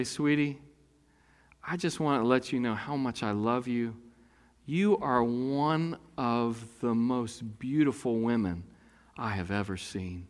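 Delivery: a husband murmuring a compliment over dinner; tender compliment. Pretend. Husband's tender line to wife.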